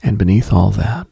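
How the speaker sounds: plain reading voice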